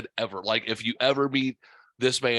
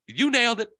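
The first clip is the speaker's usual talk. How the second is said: high mimicry of an approving coworker; Sylvester impression; 10 semitones higher, faster than usual. Coworker approving the nickname as he walks off, imitated high. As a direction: repeat the praise high, in an old-time singer's style. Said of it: "he sounds like a singer".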